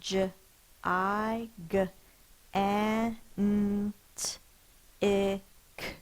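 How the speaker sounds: J, I G, A N T, I C said slowly letter by letter; spelling letter by letter. Shown as a demonstration. Teacher spelling gigantic letter by letter. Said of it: "Let's sound it out".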